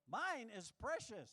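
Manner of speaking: slow, treasuring voice; slow possessive precious. Acted. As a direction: hold it like treasure. Mock Gollum precious.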